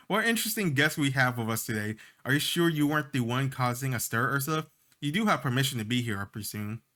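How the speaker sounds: a hint of a composed, amused fairy; gracious fairy greeting her guests; lightly voiced fairy. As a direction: play the fairy as poised and curious.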